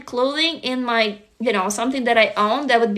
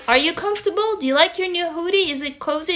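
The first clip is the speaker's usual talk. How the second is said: put-on lightly raised, gentle parent checking on a child; caring parent voice; 5 semitones higher, faster than usual. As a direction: ask like a doting parent, a touch higher. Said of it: "I felt literally like a parent".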